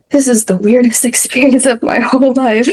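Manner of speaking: retold bewilderment breaking into a laugh; amused, incredulous retelling; laughing disbelief. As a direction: laugh through the words as you recall it. Retells absurd moment, laughing.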